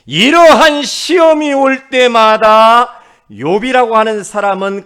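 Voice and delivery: loud, slow, high proclamation; full-force preaching. Real, not acted. Preacher proclaiming how Job met every trial, full-force preaching. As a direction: proclaim it slowly from high and loud, then ease.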